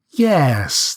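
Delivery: high sing-song bird. A narrator's reading. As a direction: voice the bird with light curiosity. Bird character voice.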